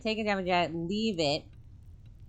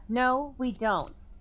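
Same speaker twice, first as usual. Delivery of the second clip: slow, high, stubborn no; defiant curt refusal; flat refusal; 5 semitones higher, slower than usual. Acted. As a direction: dig in. Clarissa refusing.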